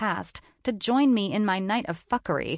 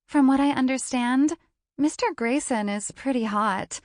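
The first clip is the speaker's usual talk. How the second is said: giggly gossip; 5 semitones higher than usual. Acted. Blonde gossiping.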